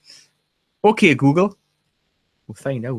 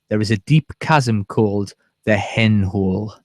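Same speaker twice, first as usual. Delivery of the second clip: slow, lower storyteller voice; spooky story reading; 3 semitones lower, slower than usual. Pretend. Reading the fairy legend aloud, slow and a bit spooky. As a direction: read it slowly like a ghost tale. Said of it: "do me Alan Robson spooky voice now".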